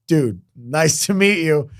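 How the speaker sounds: slow, drawn-out greeting; awed greeting. Retold or imitated. Musician retelling meeting Randy Johnson, slowly impressed. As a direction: stretch it out, a touch starstruck.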